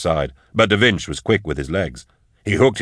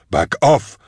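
raised, high-pitched warning; horrified yell; 5 semitones higher than usual. A narrator's reading. Man facing approaching animations in horror, high yell. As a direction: call it out high, fending them off. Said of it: "he yelled".

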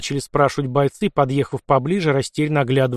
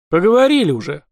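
snorted; 5 semitones higher, 5 dB louder than usual. Acted. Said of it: "фыркнул Лёха".

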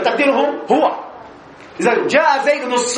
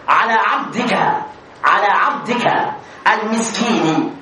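pitying plea; 3 semitones lower, slower than usual. Shown as a demonstration. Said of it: "الترحم".

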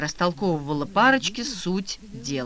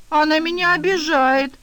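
put-on childish whine; 10 semitones higher, 6 dB louder than usual. A narrator's reading. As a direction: whine like a kid tattling. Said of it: "по-детски протянул Эдик".

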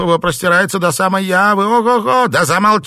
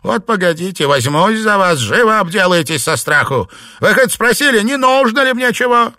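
loud, high furious scolding; scolding rant; 9 semitones higher, 6 dB louder than usual. A narrator's reading. Mistress berating her maids, angry rant. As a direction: tear into the useless servants.

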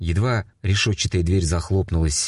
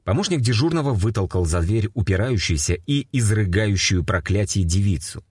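ordinary delivery

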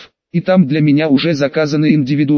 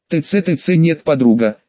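tsk tsk disapproving. Acted. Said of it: "выражала явный скепсис".

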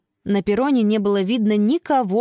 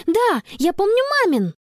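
high, joyful; beaming; 11 semitones higher than usual. A narrator's reading. Girl remembering mum's number, beaming. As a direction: brighten with relief. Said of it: "просияла Конни".

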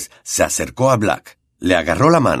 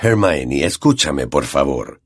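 pleading Lupin; 7 semitones lower, slower than usual. A narrator's reading. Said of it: "exclamó Lupin".

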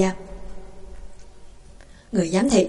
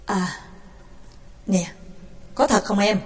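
gentle question; 2 semitones lower, 7 dB quieter than usual. Acted. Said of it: "dịu giọng lại".

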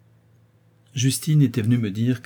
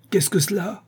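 much higher, alarmed call; calling through door; 9 semitones higher than usual. A narrator's reading. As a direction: shout the question through a closed door. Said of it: "cria le marquis à travers la porte".

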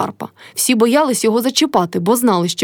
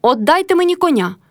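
shouting; 8 semitones higher than usual. A narrator's reading. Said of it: "крикнув Карпо".

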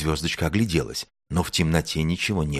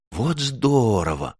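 slow, drawn-out delight, pitched up; higher, thrilled exclamation; 6 semitones higher, slower than usual. A narrator's reading. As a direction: marvel happily, stretching the words. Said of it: "обрадовался Медвежонок".

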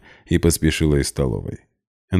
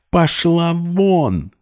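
much higher, slow shrieked order; falsetto fury; 13 semitones higher, much slower than usual. A narrator's reading. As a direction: scream her out. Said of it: "голос сорвался на фальцет". (сорвавшись на фальцет)

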